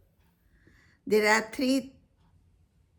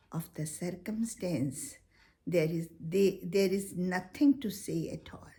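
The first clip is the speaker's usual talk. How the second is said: poem recitation. Acted. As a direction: recite it gently, letting lines fall to a whisper.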